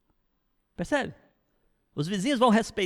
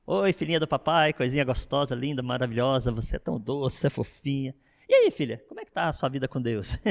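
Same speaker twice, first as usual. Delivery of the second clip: carinhoso; 4 semitones lower than usual. Shown as a demonstration. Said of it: "É assim".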